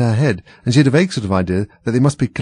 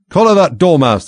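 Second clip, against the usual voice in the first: high, loud shriek; furious queen shrieking her command; 8 semitones higher, 8 dB louder than usual. A narrator's reading. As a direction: screech the order at the court. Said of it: "the queen shrieked out".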